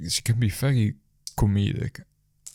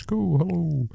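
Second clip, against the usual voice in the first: friendly hello; 9 semitones higher, slower than usual. Retold or imitated. Greeting child back.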